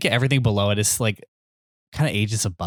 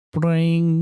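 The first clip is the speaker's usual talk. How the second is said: higher ringing guitar noise; imitated guitar strum; 5 semitones higher than usual. Co-host mimicking an easy sixties song, imitated guitar twang. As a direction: sing out a mock guitar chord. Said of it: "'Cause it's like".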